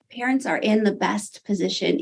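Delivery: recovering with a small laugh; laughing through tears. Real, not acted. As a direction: laugh it off and restart. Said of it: "Sorry, I'm kind of teary".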